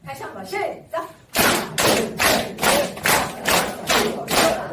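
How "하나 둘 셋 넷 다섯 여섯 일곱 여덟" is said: forceful rhythmic exercise count; loud clapping count. Shown as a demonstration. Leading seniors clapping along, loud steady count. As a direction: call each number loudly on the beat. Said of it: "박수도 같이 쳐야 돼요".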